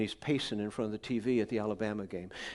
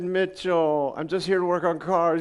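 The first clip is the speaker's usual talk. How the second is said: exasperated pastor; 5 semitones higher, 8 dB louder than usual. Retold or imitated. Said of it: "I said".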